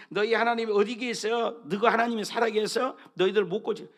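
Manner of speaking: enemy mocking God's people; snide mocking. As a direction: needle them about their god. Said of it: "이렇게 깐죽거리는 거예요".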